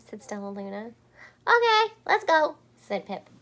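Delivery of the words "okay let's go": high, loud eager yes; loud high eager bird. Acted. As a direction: jump at the chance. Pip eagerly agrees.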